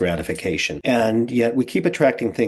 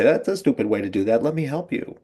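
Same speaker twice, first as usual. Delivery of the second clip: light teasing that rises into an offer; playful teasing; 4 semitones higher, 3 dB louder than usual. Retold or imitated. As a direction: imitate a playful wife, lifting higher at the end. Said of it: "she thought she was being playful about it".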